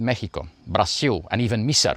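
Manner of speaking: Mexico, Brazil, Misar each said as the locals would; native pronunciations. Retold or imitated. Voiceover artist keeps going through countries in local pronunciations. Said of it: "is doing an accent".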